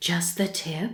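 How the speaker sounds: soft, hushed, barely voiced whisper. Retelling what a man on a show said in bed: imitating a whisper. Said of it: "whispering in bed goes".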